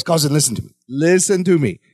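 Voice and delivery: low, steadying imitation; calm down a panicking cousin, retold; trying to be calm. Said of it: "trying to be calm".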